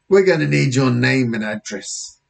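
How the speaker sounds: lightly voiced British officer; a hint of a nosy cop; policeman. Officer questioning boy about friend, policeman voice.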